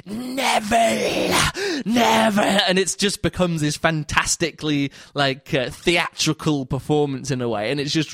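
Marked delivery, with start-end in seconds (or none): 0.1-2.6 high, slow, drawn-out calls of a name; retold shouting. Cortman outside calls Neville, slow and high-pitched. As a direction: call him out slowly from outside. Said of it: "he's shouting".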